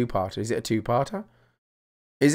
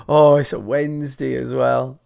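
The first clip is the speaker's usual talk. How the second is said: slow, drawn-out mock moan; grumbling Brit. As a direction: lightly imitate a Brit moaning about the day. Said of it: "Yeah, but we do".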